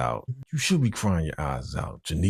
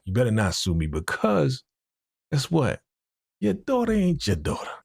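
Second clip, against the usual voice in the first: mock doctor blurting the secret; 8 semitones higher than usual. Doctor threatens Jack with the secret, high mock blurt.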